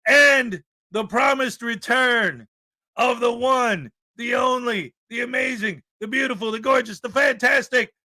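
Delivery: host hyping Ray Ray's return like a ring announcer; hype build-up. Real, not acted. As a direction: build each title bigger like a ring announcer.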